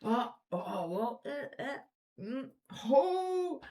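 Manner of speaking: imitating crazed lady. Lady waving wine at the ocean, high babbling. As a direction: ham up a woman talking to no one. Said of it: "and she's like".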